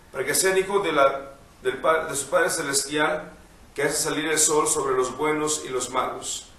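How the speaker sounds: measured liturgical reading voice; gospel reading. Acted. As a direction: read the Gospel aloud, unhurried. Priest reads the Gospel.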